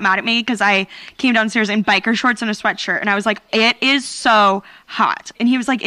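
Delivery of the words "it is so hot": slow, drawn-out retold whine about heat; exasperated complaint. Daughter complaining to dad about the thermostat, exasperated. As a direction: stretch it out to make the point to dad.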